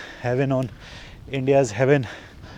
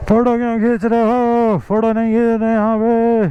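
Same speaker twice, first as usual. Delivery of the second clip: higher-pitched imitation of a guard scolding; guard from the upper post scolding him for taking photos, imitated higher; mock scolding; 8 semitones higher than usual. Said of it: "डांटने लगे".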